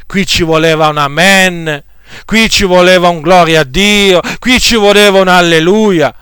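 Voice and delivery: hammed-up pulpit demand for a response; mock preacher prompting. Preacher mocking colleagues who beg the congregation for amens, mild mock insistence. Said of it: "richieste che spesso si sentono ... fatte dal predicatore".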